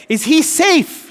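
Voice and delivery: high, slow, small voice asking; a scared girl's anxious question; timid Susan. Retold or imitated. Susan asking the others about the lion, high and slow. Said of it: "she asks".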